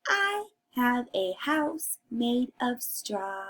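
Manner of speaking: lightly voiced little pig; a hint of a piggy voice, word by word. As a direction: gently play a little pig reading along. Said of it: "Can you use your pig voice".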